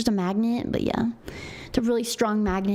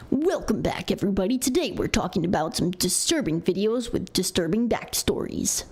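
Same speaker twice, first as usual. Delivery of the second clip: scary story YouTuber voice; 5 semitones lower than usual. Shown as a demonstration. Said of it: "that's my YouTuber voice".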